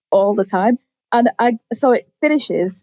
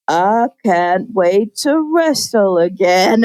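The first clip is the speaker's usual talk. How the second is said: slow, blank and dopey; dazed brother; 3 semitones lower, slower than usual. Retold or imitated. Injured brother out of a coma, slow and dazed. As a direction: drag it out like you've just woken up.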